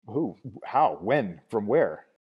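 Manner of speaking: rapid, eager questioning; excited interrogation; eager questions. A narrator's reading.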